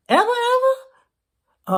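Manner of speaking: mock incredulous. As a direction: pull it up high and slow in fake shock. Repeated question, second stretched.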